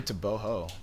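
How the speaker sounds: Teboho with a soft H for the G; G pronounced as H. Shown as a demonstration. Runner correcting the interviewer, Teboho with an H sound. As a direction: say Teboho, breathing an H where G is written. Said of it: "you pronounce the G as an H".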